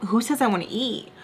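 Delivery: mock bratty challenge, rising at the end; annoying. Daughter needling her father at the restaurant, annoying. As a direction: imitate a needling, repeated challenge. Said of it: "she is just being so annoying".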